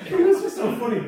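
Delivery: words squeezed out through laughter; real giggling; laughing. Real, not acted. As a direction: still laughing, high and loud. Still laughing.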